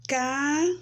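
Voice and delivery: "Ca-ti-a" split into syllables with long pauses. Shown as a demonstration. Teacher shows children the pieces of her name, syllable by syllable. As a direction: draw out each piece of "Ca-ti-a" separately. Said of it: "formado por três sílabas".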